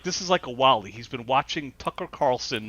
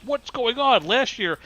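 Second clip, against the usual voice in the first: higher, mock outraged disbelief; indignant old man; 9 semitones higher, slower than usual. Crotchety old man to poll worker, mock outraged disbelief. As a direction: play the cranky old voter, stunned.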